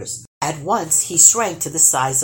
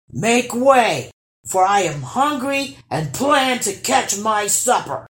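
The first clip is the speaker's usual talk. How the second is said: hungry troll; 4 semitones higher, 4 dB louder than usual. Acted.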